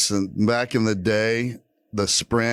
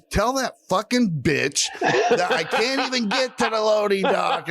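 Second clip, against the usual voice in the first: retold scream; 9 semitones higher than usual. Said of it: "And I just start screaming".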